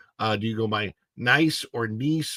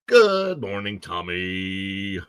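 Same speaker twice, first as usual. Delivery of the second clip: put-on greeting; 4 semitones lower, much slower than usual.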